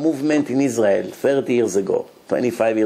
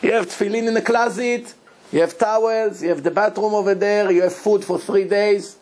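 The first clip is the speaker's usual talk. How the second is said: high, panicked shouting at the locked door; mock scream; 7 semitones higher than usual. Groom locked in by friends, shouting in panic. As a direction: yell it in disbelief, pitched way up. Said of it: "He screams".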